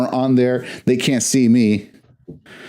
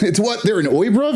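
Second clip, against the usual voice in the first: mock surprise; 10 semitones higher than usual. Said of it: "and I was like".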